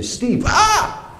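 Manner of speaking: high startled cry with laugh; startled yelp. Retold or imitated. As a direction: jump at being caught. Caught by dad, startled.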